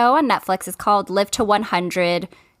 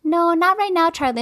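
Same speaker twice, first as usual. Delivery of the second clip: stern; 8 semitones higher than usual. Retold or imitated. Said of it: "say it in a stern way".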